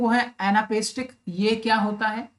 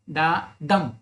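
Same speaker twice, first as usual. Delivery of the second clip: unstressed डा, then a weighted, lower डम; stress on डम; 5 semitones lower, much slower than usual. Shown as a demonstration. Teacher demonstrating iambic feet, stress falling on डम. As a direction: land firmly on डम after डा. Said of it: "stress लग रहा है".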